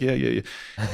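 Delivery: softly brushed-off agreement; insincere. Retold or imitated. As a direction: mumble an insincere, placating agreement. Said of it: "the most insincere hug in the world".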